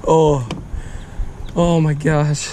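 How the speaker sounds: real delighted outburst after landing a bass; excited shout. Real, not acted. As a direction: yell it out, thrilled.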